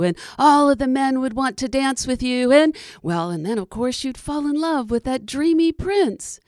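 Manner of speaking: eager, persuasive little creature; groundhog voice. Acted. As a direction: sell the dream with gusto. Groundhog selling the dream.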